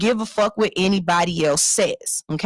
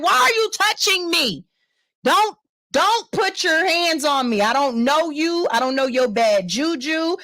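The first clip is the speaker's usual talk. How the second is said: retold telling-off; 3 semitones higher than usual. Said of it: "I was like".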